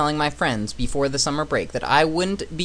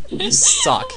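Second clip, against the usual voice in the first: high mock voice; 6 dB louder than usual. Real, not acted. Friend mocking with a laugh.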